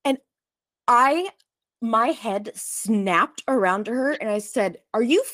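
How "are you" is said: loud, higher angry outburst at the cashier; retold shout of disbelief at the cashier; furious yell. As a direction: snap at her, not believing it. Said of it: "I've never screamed "fuck" so loud in my life".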